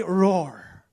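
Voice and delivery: half-hearted roar. Pretend. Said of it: "Wow. Convincing".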